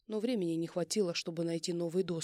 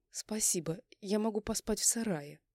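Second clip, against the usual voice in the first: mocking mimic; 3 semitones higher than usual. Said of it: "Передразниваю".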